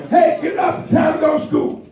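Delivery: high calling wake-up voice; parent waking you. Retold or imitated. Parent calling a child to get up for school, high call. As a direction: call the sleepy kid out of bed.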